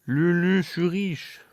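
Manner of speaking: high, loud gleeful call. Real, not acted. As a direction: shout it out happily. Calling out to character.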